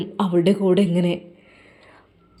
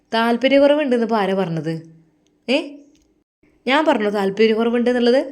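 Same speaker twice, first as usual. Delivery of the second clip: defiant retort; 4 semitones higher than usual. Acted. Daughter-in-law retorts defiantly.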